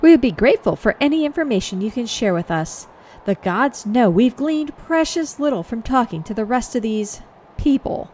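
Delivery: mildly snooty formal request; a touch of lofty exasperation; polite but slightly superior. Acted. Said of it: "Don't get snooty".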